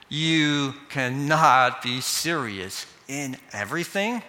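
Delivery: slow, drawn-out disbelief, rising at the end; lightly voiced scoffing culture, each word stretched; incredulous cultural voice. Culture answering the command to obey, in slow disbelief. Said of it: "there are cultural voices".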